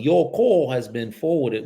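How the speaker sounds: put-on slow English-accented voicemail greeting. Agent mimicking the voicemail he reached, English accent. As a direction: imitate an English voicemail recording, slowly. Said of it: "this frickin' English voicemail".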